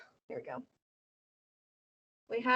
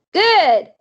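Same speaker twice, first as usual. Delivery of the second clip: put-on much higher, bossy little girl; 6 semitones higher, 8 dB louder than usual. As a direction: boss them like a tiny kid. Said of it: "Sweetie Pie Thomas voice".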